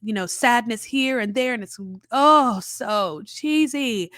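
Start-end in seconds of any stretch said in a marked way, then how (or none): 2.1-4.1 drawn-out, slow groan of distaste; mock disgust. Real, not acted. Reviewer mocking a sappy montage, slow disgusted drawl. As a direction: let the cheesiness ooze out slowly.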